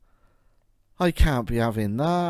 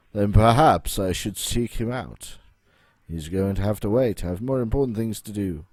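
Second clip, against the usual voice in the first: deep voice; 2 semitones lower than usual. Acted. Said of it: "speaking in a deep voice".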